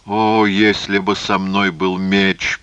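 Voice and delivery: slow, drawn-out lament; understated groan of helplessness; mild moan. Acted. Phasael, bandaging the priest, wishes for a sword, mild moan. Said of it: "простонал он".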